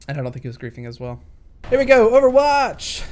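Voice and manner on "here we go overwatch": excited. Real, not acted. Hyped start of a replay.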